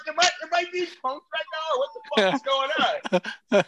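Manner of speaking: as if being punked; incredulous. Retold or imitated. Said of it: "I'm like".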